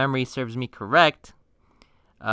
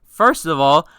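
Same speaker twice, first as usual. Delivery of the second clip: loud, raised, deliberate warning; emphatic scolding; 3 semitones higher, 6 dB louder than usual. Retold or imitated. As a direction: lay down the law to your friend. Scolding friend in retold chat.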